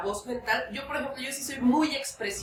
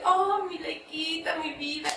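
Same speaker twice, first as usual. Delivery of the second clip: tender; 5 semitones higher than usual. Retold or imitated. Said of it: "con la hijita, que es mi perrita".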